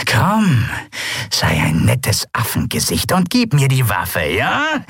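mock-friendly pirate, lightly voiced; wheedle, sly and sweet; pirate coaxing the boy to hand over the weapon.

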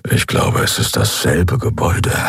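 low, hushed murmur; half-whispered low grumble; quiet low murmur. A narrator's reading. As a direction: keep it under the guard's radar. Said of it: "brummte Keru leise".

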